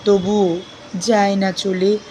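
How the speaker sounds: measured, expressive verse reading with deliberate pauses; poem recitation. Acted. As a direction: recite the poem phrase by phrase, lingering on words.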